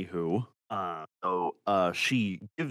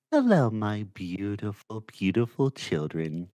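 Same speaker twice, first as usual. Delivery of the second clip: gentle voice. Acted. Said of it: "a very gentle voice going".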